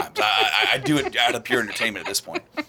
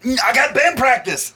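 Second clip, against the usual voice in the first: laughing shout; 11 semitones higher, 6 dB louder than usual. Retold or imitated. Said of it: "he's like".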